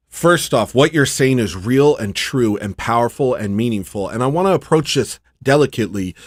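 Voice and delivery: lightly voiced gushing chatbot; a hint of a fawning, delicate chatbot; mocking ChatGPT. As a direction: parody a syrupy, overly careful AI assistant. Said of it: "I hate the way it talks".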